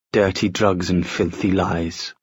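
lazy mocking drawl; slow drawl. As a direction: draw it out with disdain. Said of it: "Will drawled".

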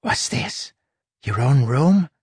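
light, high little rat voice; squeaky rat sidekick speaking; small rat voice. Acted. Rat character Huck voiced.

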